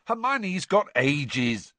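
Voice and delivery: slow, drawn-out sulky snap; snapped. A narrator's reading. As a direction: brush her off with a grudging snap. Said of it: "snapped Ron".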